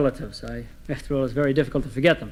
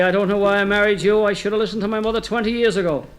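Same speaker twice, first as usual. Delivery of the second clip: higher-pitched acted complaint; nagging wife; 4 semitones higher than usual. Wife's acted complaint to husband.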